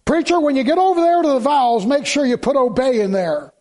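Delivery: lightly voiced groom pressing the preacher; teasing groom. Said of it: "it's the guy".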